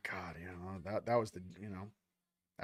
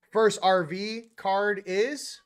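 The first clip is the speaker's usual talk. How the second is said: slow reveal; 3 semitones higher, 4 dB louder, much slower than usual. Acted. Drawn-out card reveal.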